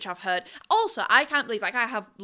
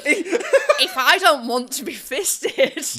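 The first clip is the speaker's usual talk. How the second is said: slow, louder words broken up by laughter; laughing; 6 semitones higher, 7 dB louder, much slower than usual. Real, not acted. Joking with co-hosts about dating, laughing slowly. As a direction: laugh your way through the line. Laughing through a joke to co-host.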